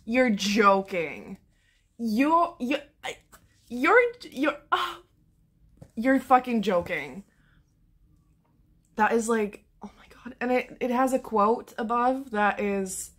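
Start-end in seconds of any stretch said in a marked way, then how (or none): 0.0-7.2 stunned disbelief. Real, not acted. Stunned by book back. 9.8-10.3 breathless whispered oh my God; barely voiced, breath taken away; awed whisper. Real, not acted. Vlogger seeing the book's back, awed whisper. Stunned by cover.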